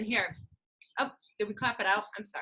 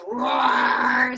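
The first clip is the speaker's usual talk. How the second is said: loud mock roar; playful growly roar; tiger roar; 6 dB louder than usual. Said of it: "he goes".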